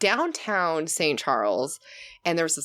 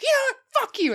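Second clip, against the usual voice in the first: high mock yell; much faster than usual. She tells off the driver behind, high yell. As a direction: spit it out, done with him. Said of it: "I'm like".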